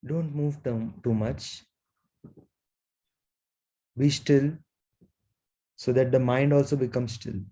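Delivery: unhurried meditation guidance with long pauses; guided meditation. Real, not acted. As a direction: guide them gently into stillness, leaving long silences.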